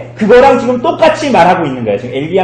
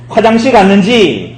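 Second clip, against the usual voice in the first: slow, raised taunt on 화장실 갔는지; mocking. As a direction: imitate a jeer, stretching 화장실 갔는지. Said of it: "엘리야가 조롱하는 거예요".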